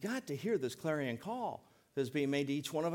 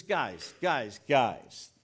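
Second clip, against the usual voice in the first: gentle rebuke; 8 dB louder, much slower than usual. Retold or imitated. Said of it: "Not yelling or screaming".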